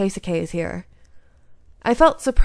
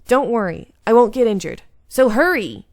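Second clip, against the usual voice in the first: louder, pressing urging; urgent reassurance; 2 semitones higher, 6 dB louder than usual. Acted. Chizuru loudly urges Heisuke to hurry. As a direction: push him to hurry.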